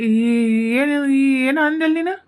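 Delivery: hammed-up loud ghostly outburst; offended wail. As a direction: cry out in hurt disbelief. Ghost offended by remark on blackness.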